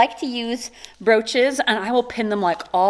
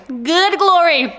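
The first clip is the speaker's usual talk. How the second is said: excited; 5 semitones higher, 4 dB louder, slower than usual. Real, not acted.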